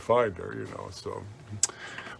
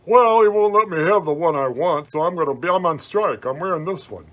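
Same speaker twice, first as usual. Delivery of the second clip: a hint of a sulky kid, raised pitch; lightly voiced stubborn kid; 3 semitones higher than usual. Kid puppet arguing with the man about his shirt, sulky. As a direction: play the kid on strike, defiant.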